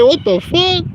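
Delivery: high, loud what the fuck; stunned, shrieking; shocked. Retold or imitated. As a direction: squeal it in disbelief. Shocked quote at package.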